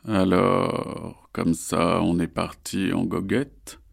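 slow rasping predator voice; raspy voice. Acted. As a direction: rasp it out, slyly. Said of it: "dit une voix rauque".

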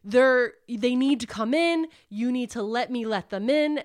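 mild mock yell; half-scream, insistent and urgent; retold scream. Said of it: "He's screaming".

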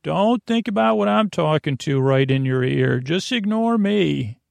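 a hint of a self-effacing nana guilt trip; passive-aggressive nana. Nana insisting she be ignored, lightly voiced passive-aggression. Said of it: "She says".

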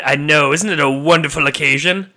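loud, gleeful villain; gloating Dark Lord. Acted. Satan gloats to his subdemon, loud and gleeful. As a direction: savour the evil moment out loud.

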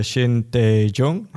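"Shin Tae-jong" said slowly, each syllable placed with care; slow, careful try at the Korean name "Shin Tae-jong"; careful name pronunciation. Real, not acted. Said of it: "I hope I pronounced this, uh, right".

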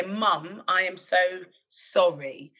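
slow and gentle, each word weighed; slow, tender apology. Retold or imitated. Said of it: "All I can say".

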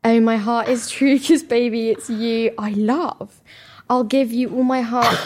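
cheesy lyrics read slowly; lightly crooned valentine lyrics; mock serenade reading. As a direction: stretch out the love lines like a half-hearted ballad. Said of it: "we're gonna have to read this out".

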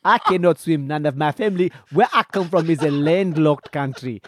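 a playful mock Nigerian prince, understated; Nigerian accent. Friend egged on to voice the Nigerian prince, light Nigerian accent. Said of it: "let him do his Nigerian accent here".

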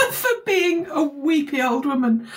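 high, laughing apology; self-mocking laugh. Real, not acted. Tearful guest laughing as she apologises to the host. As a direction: laugh at yourself while still teary.

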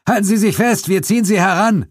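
high, loud call across the water. Acted. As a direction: shout it down to the swimmer. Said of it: "rief Suko". (Suko ruft laut zum Schwimmer hinunter)

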